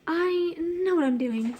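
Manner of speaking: slow fake British; clumsy British impression; bad British accent. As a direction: try a British accent, slowly. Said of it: "can't do a British accent".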